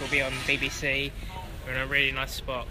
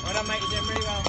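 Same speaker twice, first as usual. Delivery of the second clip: raised, bright call of praise; encouraging cheer; 9 semitones higher, faster than usual. Real, not acted. Cheering a passing runner.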